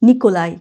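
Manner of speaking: "নিকোলাই" ending in ai, no j sound; silent-j Nikolai. Shown as a demonstration. Teacher echoing the dictionary, "নিকোলাই" ending in ai. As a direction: say "নিকোলাই" with a gliding vowel ending. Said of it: "জে উচ্চারণ হবে না".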